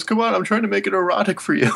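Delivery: high, fast nerdy whine; dorky voice. Retold or imitated. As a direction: quote him like a dork. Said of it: "in his dorky voice".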